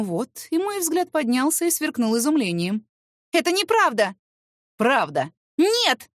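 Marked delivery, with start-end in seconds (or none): 3.3-6.1 high loud denial; heated shout. Acted. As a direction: yell it back at him. Heated quarrel, yes-no shouting. (выкрикнуть)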